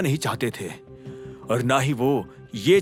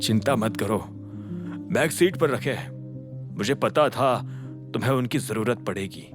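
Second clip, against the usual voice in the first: soft, lower, reassuring dialogue; understated comfort, voice lowered; gently reassuring; 4 semitones lower, 5 dB quieter than usual. A narrator's reading. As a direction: quietly tell a friend not to worry. Friend reassures grieving man.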